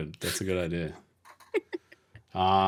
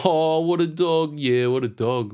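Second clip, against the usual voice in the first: drawn-out, pitched-up Aussie lad impression; quintessential Aussie lad; 7 semitones higher, 3 dB louder, slower than usual. Imitating butcher workmates in an Aussie lad accent. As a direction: put on a laddish Aussie accent, stretched out. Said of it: "talking just like a quintessential Aussie lad".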